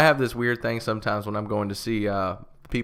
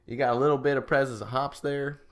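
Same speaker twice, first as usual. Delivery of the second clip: put-on Southern accent. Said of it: "it's so bad".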